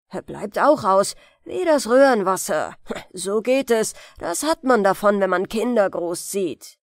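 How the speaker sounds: leicht gespielter mürrischer alter Müller; griesgrämiger Müller. Acted. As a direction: brummig klagen wie ein alter Müller. Grumbling old miller speaks. (griesgrämiger Müller, der über seine Kinder klagt)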